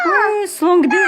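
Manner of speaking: high, laughing question. Real, not acted. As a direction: ask it through a laugh. Asking toddler, laughing.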